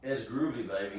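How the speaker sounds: lightly put-on British accent, dropping on the last word; British Austin Powers accent. Quoting the spy's catchphrase while chatting about staying in character, light British accent. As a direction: try a slight British spy-spoof accent. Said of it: "it's nothing but British accent".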